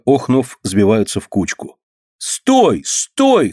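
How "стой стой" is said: urgent shout. A narrator's reading. Boy grabs owner's sleeve.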